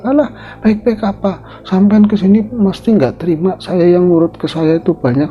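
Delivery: high, fast scornful rant; Ratmi mocking. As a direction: taunt her, daring a fight.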